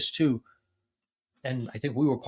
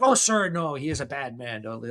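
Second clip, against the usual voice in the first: indignant; 3 semitones higher than usual. Retold or imitated. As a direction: imitate an interpreter protesting on someone's behalf. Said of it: "got all indignant on my behalf".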